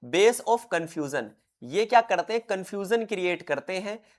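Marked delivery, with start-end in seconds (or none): 0.1-1.2 very slow, deliberate; teacher slowing down on the key phrase; slow emphasis. Shown as a demonstration. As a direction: lay out "base of confusion" word by word. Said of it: "याद रखना".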